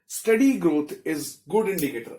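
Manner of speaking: slow, word-by-word dictation; dictating notes. Shown as a demonstration. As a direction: spell out the note slowly for writing. Teacher dictates notes in English. (धीमे-धीमे notes बोलना)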